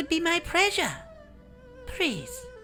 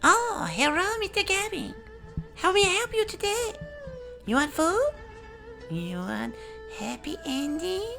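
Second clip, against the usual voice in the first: put-on high-pitched caricatured Chinese accent; squeaky-high Chinese-accented hostess; stereotyped Chinese accent. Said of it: "this horrific accent".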